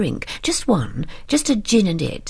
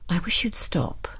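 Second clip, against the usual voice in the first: softer, steady and under the breath; quiet, steady; 6 dB quieter than usual. Acted. Husband quietly asking his wife to stop, quiet and steady. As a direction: hold it quiet but don't waver. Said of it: "His voice was still quiet, but steady".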